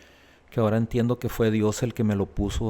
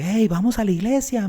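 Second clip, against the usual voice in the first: high, bright call, a little louder; cheerful call out; 10 semitones higher, 4 dB louder than usual. Retold or imitated. Friend calling out an invitation to church, upbeat. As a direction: call out to him eagerly from the street.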